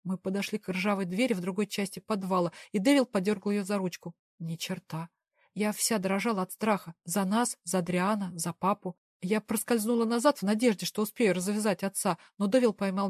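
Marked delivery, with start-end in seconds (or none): none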